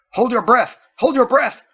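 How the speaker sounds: commanding shout. Acted. Commander orders during attack.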